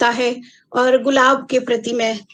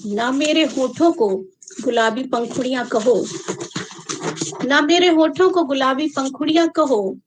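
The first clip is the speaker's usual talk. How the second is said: measured poem reading with long pauses; unhurried verse recitation; poetry recital. Acted. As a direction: recite line by line, letting each phrase land.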